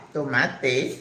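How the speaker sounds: "tomate" with a crisp Spanish e, rising; Spanish pronunciation. Shown as a demonstration. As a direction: correct it to "tomate", to-MA-te. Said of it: "not tomata".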